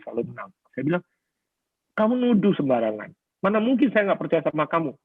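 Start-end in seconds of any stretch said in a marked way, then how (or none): 1.9-5.0 mildly indignant, pitch lifted; retold defensive protest. Husband defending himself to his wife, mock-indignant protest. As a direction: argue back as if wrongly accused, lightly acted. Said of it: "saya itu selalu membela diri".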